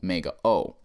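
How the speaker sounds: omega opening on a long, round O; O said as the letter's own name. Shown as a demonstration. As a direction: draw out the O in omega, then O alone. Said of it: "it's the long O".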